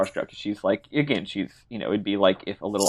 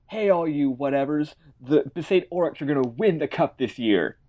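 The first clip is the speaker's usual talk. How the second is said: mock yell; 4 semitones higher than usual. Tidus boasting to the docks, mild mock yell. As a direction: call out a boast without really shouting. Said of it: "of crates and yells".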